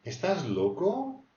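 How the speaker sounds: slow, high mock disbelief; drawn-out, high are-you-crazy tease; incredulous teasing. Shown as a demonstration. Teacher demonstrating to students, slow and high. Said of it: "au masculin ou au féminin".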